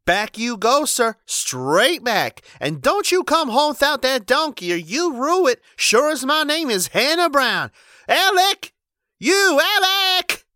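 very high, loud furious wife; enraged order. A narrator's reading. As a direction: lay down the law and call out. Enraged wife sends him back.

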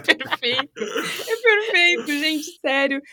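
high, laughing delight. Real, not acted. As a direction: gush through laughter. Still laughing at the video.

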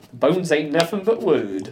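slow, drawn-out quoting; mock famous saying. Teasing the co-host's famous phrase, slow mock-solemn quote. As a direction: repeat it as a grand old proverb. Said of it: "That famous phrase".

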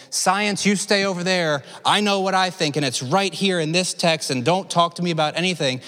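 insistent, know-it-all rebuff; mock dismissive. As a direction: wave it away like a closed-minded believer. Acted dismissal of science.

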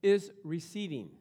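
loud, high, slow ecstatic words of a dying preacher; D L Moody's ecstatic last words, voiced loud and high; dying man's vision. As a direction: cry out in rapture at heaven's gate. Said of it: "he woke up and he says".

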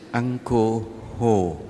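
"Uncle Hồ" said slowly, word by word; slow, deliberate "Uncle Hồ"; careful pronunciation. Shown as a demonstration. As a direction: draw out "Uncle Hồ" clearly. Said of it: "tách rời ra".

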